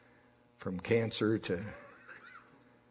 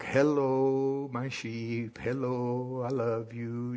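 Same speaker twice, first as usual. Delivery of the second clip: soothing; much slower than usual. Retold or imitated. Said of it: "in a tone of voice, very soothing like that".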